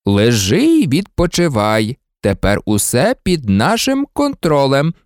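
measured, patronising reassurance; lightly voiced soothing official; placating. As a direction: humour an overwrought patient. Minister placates the agitated boy.

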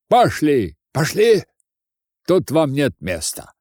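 lightly voiced cross old crone; grumbling old woman. Old woman sending away drunken students, mildly voiced grumbling scold. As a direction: scold with some force, refusing them.

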